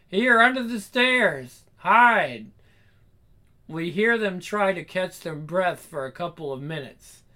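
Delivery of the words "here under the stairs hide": loud, high call to take cover; urgent shout. Acted. Runaway to partner while escaping, shouting urgently. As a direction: shout out the hiding place. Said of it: "more screaming".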